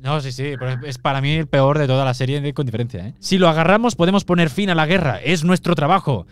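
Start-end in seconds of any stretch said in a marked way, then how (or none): 3.2-6.2 Obi-Wan. Acted. Acts out Obi-Wan's dialogue lines.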